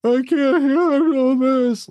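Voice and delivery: high, slow mocking wail; hammed-up falsetto can't-take-it; mock whiny man at his limit; mock overwhelmed man.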